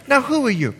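high-pitched Bahamian grandmother; Bahamian accent. Retold or imitated. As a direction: imitate an old Bahamian granny, pitched high. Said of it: "She's Bahamian, excuse the accent".

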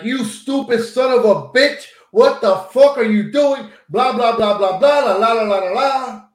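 retold screaming. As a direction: replay the insult half-yelled at the driver. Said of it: "I'm screaming at the top of my lungs".

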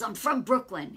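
lightly imitated New York accent. Man declaring where he's from, mock New York accent. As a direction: mimic a Brooklyn accent. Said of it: "a real heavy New York accent".

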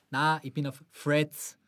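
Austrian saying "Threads" with an F sound, "Fräds"; broad Austrian, "Threads" as "Fredds"; Austrian accent. Retold or imitated. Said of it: "der typische Österreicher ... dann sagt". (österreichischer Akzent, "Threads" wie "Fredds")

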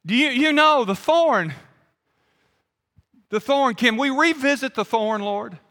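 high, tentative request to God; imitating a petitioner reopening a delicate subject; acted repeat petition. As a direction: ask haltingly with the voice lifted. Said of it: "he comes back again and he says".

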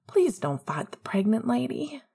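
light teasing whisper; lighthearted. Acted. Remus teasing Sirius lightheartedly, in a whisper. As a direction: tease him gently under the breath. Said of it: "Remus said lightheartedly".

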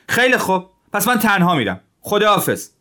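high, loud and fed up; angry. A narrator's reading. Zhilin angrily threatening to leave his friend, high and loud. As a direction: snap at him and turn to leave. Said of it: "ژیلین عصبانی شد".

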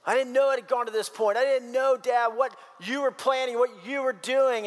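imitated hurt disbelief; upset protest. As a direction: plead ignorance to your dad, pitch up. Acted Jonathan protesting to his father.

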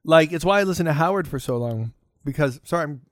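chewing while talking; words around a bite of food; mouth full. Real, not acted. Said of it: "talking with food in my mouth".

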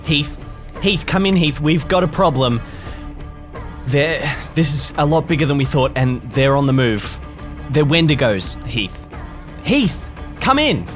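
urgent radio call. Acted.

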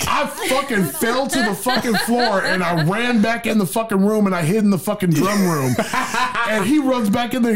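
words broken up by real laughter; giggling through the retelling; laughing while telling. Real, not acted. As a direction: laugh through the story as you tell it.

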